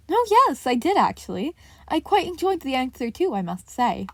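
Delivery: perked up. A narrator's reading. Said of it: "seeming to perk up".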